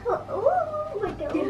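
drawn-out oh my God; surprised. Real, not acted. Sudden shock and giggles.

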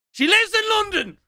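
very high, loud crowing; triumphant shout. Real, not acted. Streamer telling chat she lives in London, triumphant shouting. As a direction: crow it as vindication. Triumphant at being proved right.

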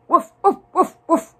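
high, loud, short woofs; punchy imitated barks; barking dog. A narrator's reading. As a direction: bark it like an excited little dog. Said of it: "barked the dog".

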